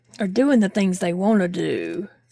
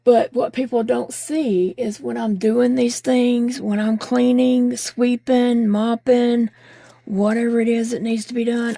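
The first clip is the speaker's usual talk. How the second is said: louder, pressing complaint; emphatic; 3 semitones higher, 4 dB louder than usual. Real, not acted. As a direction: push it out with force.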